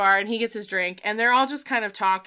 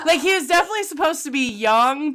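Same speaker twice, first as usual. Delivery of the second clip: laughing; 6 semitones higher, 3 dB louder, faster than usual. Real, not acted. Laughing after co-host's joke.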